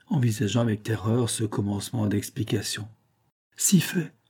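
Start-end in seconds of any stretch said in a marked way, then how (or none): 3.6-4.1 higher-pitched, animated retort; growing animated. A narrator's reading. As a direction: come back with rising animation. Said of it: "poursuivit-il en s'animant". (en s'animant)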